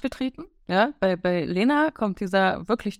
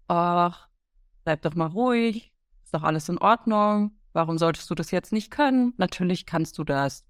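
calming inner voice. Retold or imitated. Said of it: "dann kommt eher so die Stimme".

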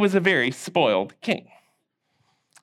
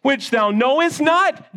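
slow, measured verse recital; slow recitation; 4 semitones higher, slower than usual. Shown as a demonstration. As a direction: lead the class through the verse. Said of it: "say it with me".

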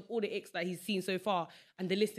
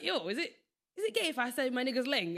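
put-on light Manchester accent, higher; 5 semitones higher than usual. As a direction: lightly imitate a Manchester lad. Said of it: "he's got this accent".

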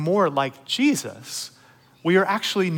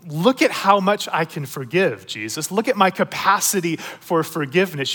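boastful Peter; 2 semitones higher than usual. Retold or imitated. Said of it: "You can almost hear it in his voice".

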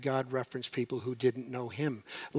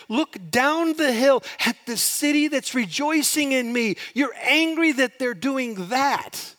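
higher, louder, pleading voice of God; God urging Jonah; 8 semitones higher, 4 dB louder than usual. Retold or imitated. God urging Jonah to look at Nineveh, high and louder. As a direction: make him look at the city. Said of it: "you can almost hear God say".

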